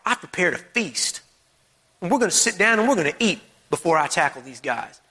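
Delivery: lightly acting an unworried host; relaxed. God before the battles raging against us, relaxed. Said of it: "that's how relaxed he is".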